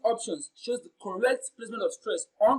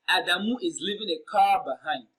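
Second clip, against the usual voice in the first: "car" punched louder within the sentence; emphatic stress on "car"; 4 dB louder than usual. Shown as a demonstration. Teacher reading exam sentence to students, emphatic stress on "car". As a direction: lean firmly on the word "car". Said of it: "The word receiving the emphatic stress here is car".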